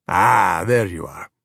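low-pitched, easy greeting; a hint of a deep-voiced dad; lightly voiced father. Massimo greets the children with pasta, lightly low.

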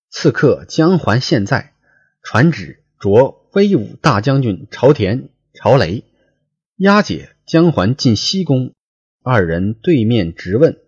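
说书人朗读古文; classical story reading. Acted. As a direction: read the old novel aloud like a storyteller. Reads classical novel text aloud.

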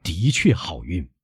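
lightly voiced slow old man; measured, unhurried old father. Old father answers his son.

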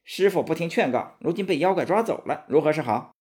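fretting aloud in frustration; agitated frustration. Acted. Monkey King fretting after the master is captured, exasperated and agitated. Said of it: "孙悟空气急了".

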